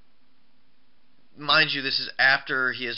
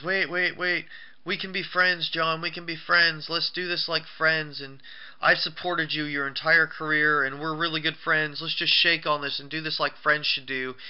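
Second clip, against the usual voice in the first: higher-pitched imitation of pleading; mock pleading; 4 semitones higher than usual. Announcer begging the wrestler to be friends, mock pleading. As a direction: imitate someone nervously talking his way out. Acting out Cole pleading with Cena.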